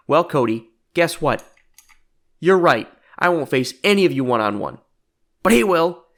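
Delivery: punchy, loud promo delivery with pauses; spring a surprise on your rival, word by word; smug reveal. Acted. Jericho names a stand-in to face Cody, smug mock reveal.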